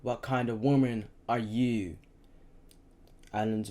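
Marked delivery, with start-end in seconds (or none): 0.0-2.0 slow, mildly raised angry demand; shouted. A narrator's reading. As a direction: press the question into her ear.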